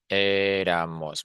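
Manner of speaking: éramos stretched slowly, stress on the first syllable. Shown as a demonstration. Teacher counting out éramos for learners, slow syllables. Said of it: "this one has three syllables".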